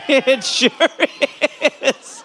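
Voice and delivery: laughing through the words; giggling, can barely finish. Real, not acted. Repeats while laughing.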